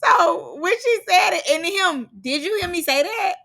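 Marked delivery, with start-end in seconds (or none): 2.2-3.3 laughing through a high African accent, mimicking the cameraman; imitating the African cameraman's accent; African accent impression. Vlogger mimics the African cameraman with an African accent. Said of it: "once you hear his accent".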